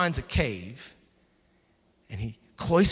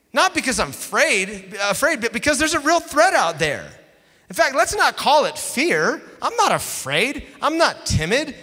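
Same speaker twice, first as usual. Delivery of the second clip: whiny excuse, higher and louder; defensive Elijah; 7 semitones higher, 6 dB louder than usual. Retold or imitated. Elijah making excuses to God, defensive and whiny. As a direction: protest too much, pitched up. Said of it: "Elijah's excuse voiced".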